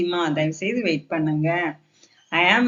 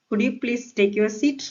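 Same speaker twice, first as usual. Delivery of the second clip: slow, higher polite question; polite request; 4 semitones higher, much slower than usual. Shown as a demonstration. Teacher rewords "sit down" for learners, polite request. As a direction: ask courteously, rising at the end. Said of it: "இந்த மாதிரி பொலைட்டா பேசினா".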